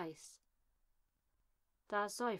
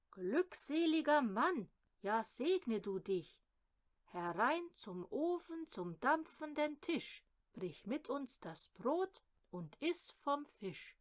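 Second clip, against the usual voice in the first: raised, ringing call of welcome; jubilant welcome; 4 semitones higher than usual. Acted. Villagers inviting the rider to table, jubilant welcome. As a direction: call him in joyfully, pitch lifted.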